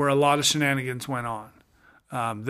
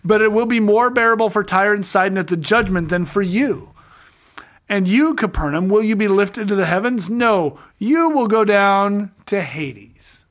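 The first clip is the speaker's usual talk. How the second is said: raised, emphatic rebuke, slowing on the last line; annoyed Jesus; 4 semitones higher, 4 dB louder than usual. Acted. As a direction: scold the towns like an irritated prophet. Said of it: "he's annoyed".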